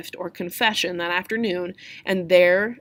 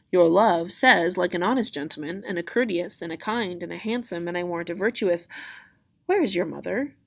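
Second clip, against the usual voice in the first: string the answer along, then switch to a question; lightly acted, unhurried nurse; stalling nurse. Nurse stalls, breaks off mid-answer.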